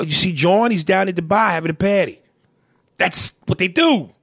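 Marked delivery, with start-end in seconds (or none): 0.0-2.2 put-on Boston accent. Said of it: "they stretch their A's".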